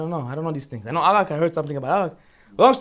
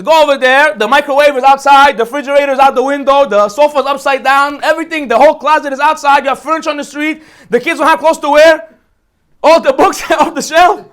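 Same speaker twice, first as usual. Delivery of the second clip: louder, worked-up list of the chaos; Paro exasperated; 2 semitones higher, 3 dB louder than usual. Acted. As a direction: pile it on like a man fed up. Paro describes Pesach chaos.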